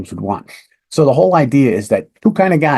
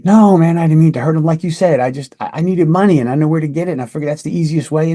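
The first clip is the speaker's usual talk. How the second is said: suspect's admission; 5 semitones higher, faster than usual. Retold or imitated. Suspect admits to detective.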